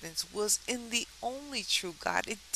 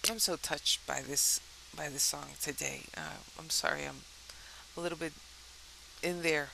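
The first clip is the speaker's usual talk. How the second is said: fighting back tears, voice wavering; choked up and trying not to cry; holding back tears; 3 semitones lower, 3 dB quieter than usual. Real, not acted. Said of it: "I'm trying not to cry".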